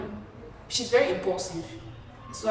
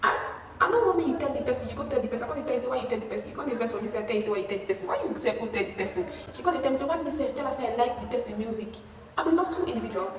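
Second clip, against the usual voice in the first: raised-pitch imitation of a scolding tirade; retold angry shouting; 4 semitones higher, faster than usual. Roommate yelling about who told the person, angry. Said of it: "she was shouting at me".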